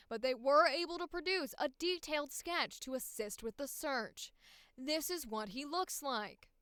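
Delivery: upbeat news anchor read; newscaster voice. Acted. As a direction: deliver like breaking news. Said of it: "the newscaster voice".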